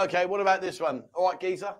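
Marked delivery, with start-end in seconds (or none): 1.1-1.7 matey Cockney greeting; Cockney accent. Shown as a demonstration. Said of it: "Cockney, okay".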